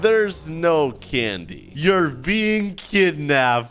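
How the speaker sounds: very slow, drawn-out reveal; lightly menacing, played slowly; mock kidnapper. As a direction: stretch each word like a pretend villain.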